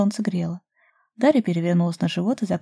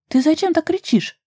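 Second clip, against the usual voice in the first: much higher, louder, outraged; indignant protest; 10 semitones higher, 4 dB louder than usual. A narrator's reading. Daria protesting at Ruslan's yelling, indignant. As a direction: throw it back at him, offended. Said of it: "возмутилась Даша".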